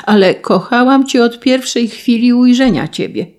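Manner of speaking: high, sustained desperate avowal; despairing cry. A narrator's reading. Countess assures the son of her love, despairingly. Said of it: "zawołała hrabina z rozpaczą".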